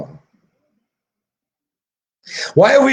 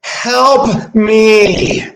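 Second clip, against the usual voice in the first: mock cry for help; 5 semitones higher than usual. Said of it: "They're just screaming".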